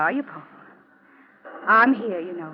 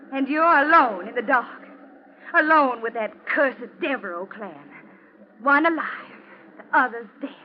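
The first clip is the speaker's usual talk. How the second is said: menacing taunt; 2 semitones higher, 4 dB louder than usual. Acted. Wife taunts husband in the dark.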